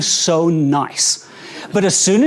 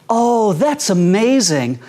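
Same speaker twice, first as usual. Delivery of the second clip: completely sincere. Acted. Wife answering husband's news about his day, mildly acted sincerity. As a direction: imitate an earnest wife, understated. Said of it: "she'll say with a completely sincere face".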